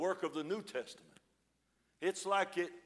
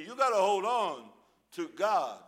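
louder, exhorting the congregation; loud preaching; 6 dB louder than usual. Real, not acted. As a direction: drive it home like a preacher.

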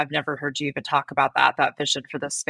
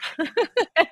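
short high laugh; a quick real laugh, much higher; 13 semitones higher than usual. Real, not acted. Laughs after "Please help.

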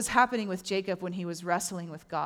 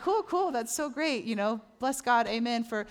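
mock cheerful; 3 semitones higher than usual. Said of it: "That's what I'm thinking".

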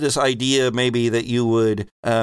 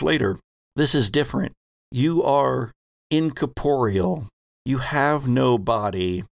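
game master narration. Acted. GM sets the scene slowly.

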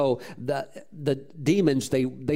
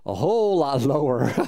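lower voice; 3 semitones lower than usual. Shown as a demonstration. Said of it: "the second voice will always be lower".

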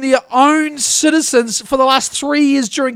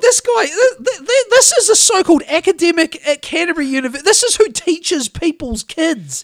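exasperated laugh; 5 semitones higher than usual. Real, not acted.

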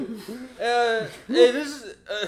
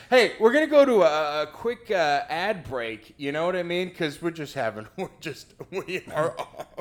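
politician. Acted. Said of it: "That was my impression of a politician".

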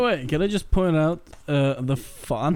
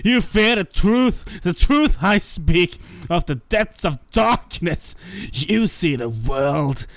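edgy villain rant. Acted. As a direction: play a brooding edgy villain working himself up to a frenzy. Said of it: "regale us with the edgy rant".

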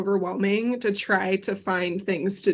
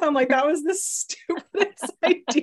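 ice in mouth; 7 semitones higher than usual. Real, not acted. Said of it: "I just put an ice cube in my mouth".

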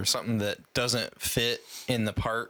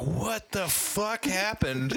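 high, drawn-out disbelief; incredulous reaction; 10 semitones higher, much slower than usual. Retold or imitated. Reacting to an actor's movie hair, incredulous. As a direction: stretch it out high in mock bafflement. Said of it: "And it's like".

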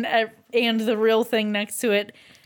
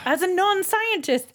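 mock interrogation; 6 semitones higher than usual. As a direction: pretend to grill the outsider. Mock-questioning the reporter.

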